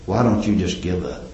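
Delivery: quiet, low mock whisper in his ear; Satan's whisper. Satan tempting Job in his ear, quiet mock whisper. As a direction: lean in and tempt him softly. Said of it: "it was whispered in his ear".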